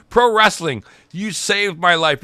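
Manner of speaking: high, loud heartfelt cry to the crowd; emotional thanks. Retold or imitated. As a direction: shout your gratitude to the fans. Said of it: "he points at the crowd and he goes".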